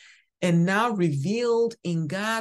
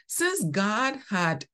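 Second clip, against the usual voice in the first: slow, leaning on "had"; "had" drawn out with weight; stress on had; 4 semitones higher, slower than usual. Shown as a demonstration. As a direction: hold and press the word "had". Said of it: "I want you to underline had".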